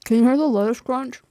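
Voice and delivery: loud, right on the microphone; too close to the mic. Real, not acted. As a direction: lean into the mic and crunch. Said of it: "I was really close to the microphone".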